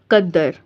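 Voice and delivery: कद्दर with doubled d, stopped on r; stopped ending. Shown as a demonstration. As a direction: drop any final vowel in कद्दर. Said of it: "ऊपर ज़बर नहीं पढ़नी".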